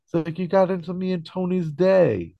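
hammed-up indignant rant at a friend; pissed-off George. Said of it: "flips out at him and all pissed off".

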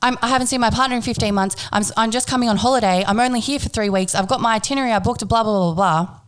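mildly upset reenacted explanation; retold tearful pleading. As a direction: plead it lightly, tailing into blah-blahs. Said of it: "then I started to cry".

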